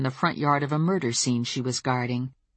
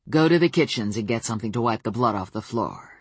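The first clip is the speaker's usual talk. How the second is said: cold regal fairy queen; 5 semitones lower, faster than usual. Acted. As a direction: claim her with cold royal calm. Queen orders the thrall.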